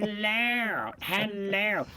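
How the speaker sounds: "Hello, hello." drawn out, through the nose as joked; posh English accent. Retold or imitated. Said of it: "gold stuck in their freaking noses".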